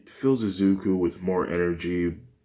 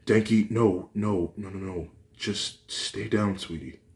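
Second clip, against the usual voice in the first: soothing mother; 2 semitones higher than usual. Acted. Mother soothing her son.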